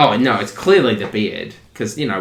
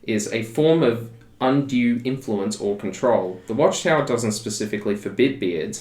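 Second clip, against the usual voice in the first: robot voice. Real, not acted. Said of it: "You just read that like a robot".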